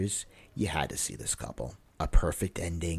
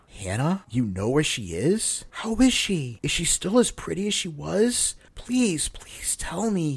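put-on high, pleading old man's voice, breaking into a whisper; begging; 10 semitones higher, 5 dB louder than usual. A narrator's reading. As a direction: plead for news of his lost love, voice climbing. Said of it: "he begged".

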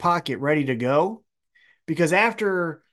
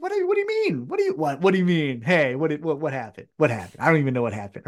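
feigned innocence; faster than usual. Retold or imitated. Jay White playing innocent to the Acclaim, mock confused. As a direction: play dumb, what happened. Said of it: "Jay White's like".

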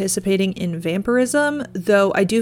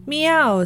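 cat meow; 7 semitones higher than usual. Acted. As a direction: answer like a cat, pitched up. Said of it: "said old Tom in answer".

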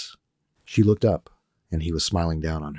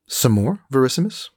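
higher, louder offer; Frenchman Rolf; 8 semitones higher, 4 dB louder than usual. Acted.

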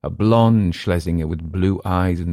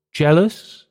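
surprised question; 11 semitones higher, 6 dB louder than usual. A narrator's reading. Emile questioning.

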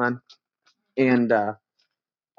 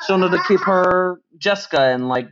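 put-on higher, silly childlike voice; kid voice; 4 semitones higher than usual. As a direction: play a little kid, half-joking. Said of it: "my kid voice".

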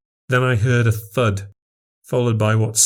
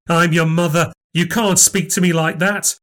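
higher, outraged scolding of a grown son; furious mother; 7 semitones higher than usual. Acted. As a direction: put him in his place, pitch up. Nan furious at her son.

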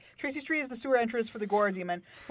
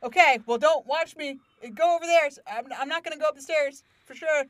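mock-obvious sneakiness, raised pitch, getting louder; obviously telegraphed; 3 semitones higher, 4 dB louder than usual. Imitating her asking about forbidden stuff, hammed-up and obvious. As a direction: announce your secret plan far too plainly. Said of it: "and she telegraphed it".

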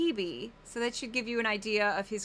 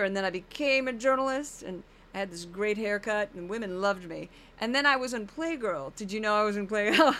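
bragging, loosely voiced Geraldo, a touch far from her own voice; Geraldo impression; 2 semitones lower, 3 dB louder than usual. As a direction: boast like an old TV vet about yourself. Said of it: "I know I'm not really getting his voice, but I'm kinda getting the energy".

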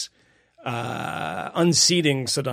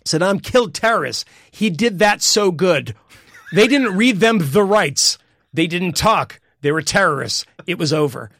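higher, louder dopey blowhard voice; Donald Trump dumb guy voice; 4 semitones higher, 5 dB louder than usual. Retold or imitated. Podcast host reading Trump's quote to his cohost, in a higher, louder dumb guy voice. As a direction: play a dim, boastful big shot gloating. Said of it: "I just wanna do it in a dumb guy accent".

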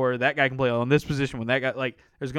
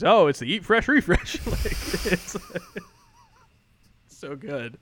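imitating Charles Barkley; 9 semitones higher than usual. Host imitates Barkley plugging Subway, high mock voice. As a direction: ham up Barkley plugging his sandwich. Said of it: "and Chuck goes, he goes".

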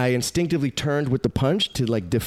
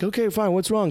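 mock compliance; 8 semitones higher than usual. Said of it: "I'm like".

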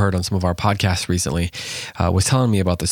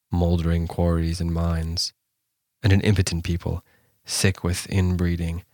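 poem reading. Acted. Host reading the Welsh poem to listeners, measured and solemn.

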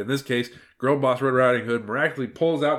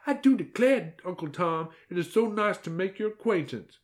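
falsetto Southern-belle politeness; exaggeratedly high, feminine voice; 9 semitones higher than usual. A narrator's reading. Wolf posing as a lady greets Tom, exaggeratedly feminine. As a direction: gush in a put-on ladylike squeak. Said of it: "in an exaggeratedly high-pitched and feminine voice".

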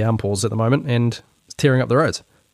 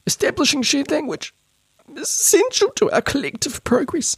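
very high mocking read of Establishing shared language; higher-pitched voice. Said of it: "a higher-pitched voice".

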